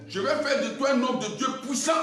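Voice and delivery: booming, imposing promise; big voice. Retold or imitated. The big voice tempts the preacher, booming. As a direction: proclaim it like a commanding voice. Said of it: "la grosse voix me disait".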